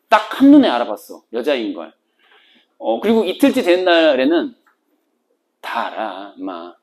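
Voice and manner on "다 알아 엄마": hushed, gentle reassurance; quiet, tender confession of knowing; soft confiding. Retold or imitated. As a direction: speak low and kind, like a secret. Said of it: "이렇게 얘기를 해요".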